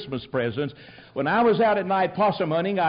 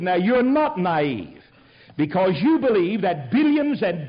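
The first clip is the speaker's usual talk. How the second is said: mocking retelling; 4 semitones higher than usual. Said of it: "Let's consider your viewpoint".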